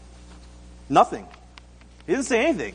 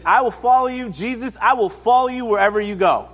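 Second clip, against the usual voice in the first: raised, keen pledge; eager declaration; 4 semitones higher than usual. Acted. Man in the crowd pledging to follow Jesus, eager. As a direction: blurt it out higher, like a keen volunteer. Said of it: "jumps up and straight away says".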